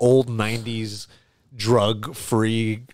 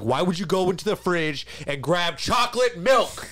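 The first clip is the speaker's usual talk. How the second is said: higher-pitched mock outrage; high, exasperated questioning; indignant retold confrontation; 6 semitones higher than usual. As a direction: act out an incredulous telling-off. Retelling an angry confrontation.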